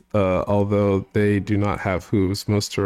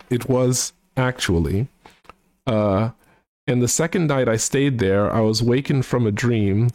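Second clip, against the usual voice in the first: hoity-toity British gent voice, sung-spoken; mock posh British, half singing a comic song; British accent. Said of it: "try and also do his, uh, accent".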